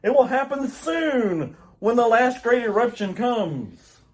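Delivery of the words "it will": urgent warning. Acted. Jor-El warning the council over the quake, much louder. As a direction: warn over the rumbling.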